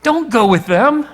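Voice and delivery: high and loud, booming a firm no; God speaking to Balaam, loud and forbidding; God's stern command. Acted. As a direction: thunder down the refusal as God.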